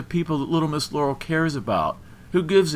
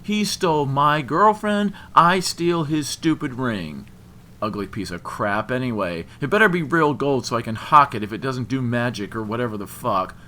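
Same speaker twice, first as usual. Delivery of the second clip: loud, bitter, raised-pitch tirade; angry rant; 5 semitones higher, 8 dB louder than usual. A narrator's reading. Jilted man claiming his rival's ring, angry rant. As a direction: spit out the grievance loudly. Christian rants, refusing the ring.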